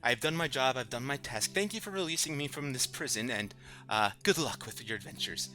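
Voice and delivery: spirit voice. Acted. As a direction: speak as a freed spirit.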